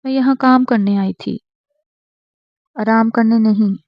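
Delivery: loud, fast defiant reply; harsh retort. Acted. Wife refusing to rest and storming off, loud and fast. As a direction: snap back and refuse to rest. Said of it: "وہ بھی سخت لہجے میں جواب دے کر".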